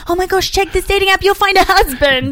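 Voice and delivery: high-pitched mock girly gush. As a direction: gush it like an excited girl. Mimicking girls on dating app.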